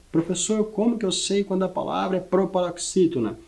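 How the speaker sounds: lightly voiced pupil's question; imitating a student. Student asking the professor how to spot a proparoxytone, lightly voiced.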